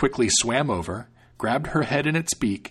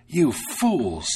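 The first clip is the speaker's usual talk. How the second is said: scolding; 3 semitones higher than usual. Acted. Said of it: "the cook scolded".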